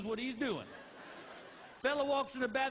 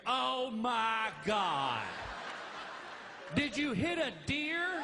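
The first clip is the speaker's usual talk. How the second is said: mock wife scream; much slower than usual. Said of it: "hear her scream".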